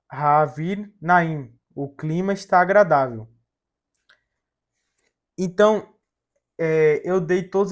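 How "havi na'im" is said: "havi na'im" slowly, the two words apart; slow model reading. Shown as a demonstration. Teacher reading the transliteration to students, slow and separated. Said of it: "Então a transliteração vai ficar".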